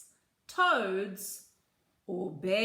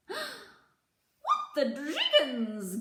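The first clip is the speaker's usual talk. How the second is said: gasped surprise; 4 semitones higher, slower than usual. Acted. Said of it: "gasped all the little bees".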